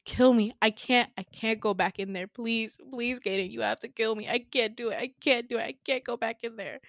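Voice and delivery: acted desperate pleading; a touch of tearful despair; crying, begging. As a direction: plead through mild mock tears. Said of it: "he's, like, crying and just, like, begging".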